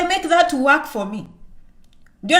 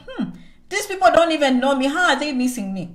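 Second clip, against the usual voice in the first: amused disbelief. Retold or imitated. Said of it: "I'm like".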